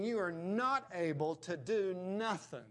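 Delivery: "not able to do nothing" with firm stress; emphatic. Retold or imitated. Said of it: "It's emphatic".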